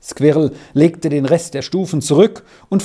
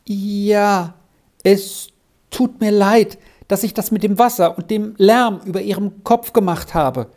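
higher, lightly voiced child; hurried apology; 6 semitones higher than usual. A narrator's reading. Squirrel apologises to the professor for the noise, hurried. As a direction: get the apology out in a high little voice. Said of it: "sagte Squirrel so schnell wie möglich".

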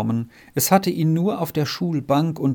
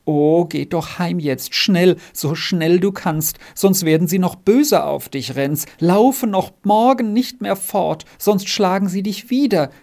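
higher, anxious lamenting; wailing plea; 5 semitones higher, 4 dB louder than usual. Acted. Margretli begging Renz to go home before he's beaten, wailing. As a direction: plead with rising distress, growing louder. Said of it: "jammerte das Margretli".

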